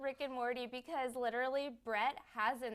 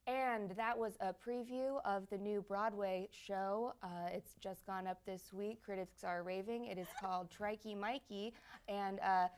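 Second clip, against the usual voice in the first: NPR host voice; 4 dB quieter than usual. Retold or imitated. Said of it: "turned the conversation with himself into an N P R interview".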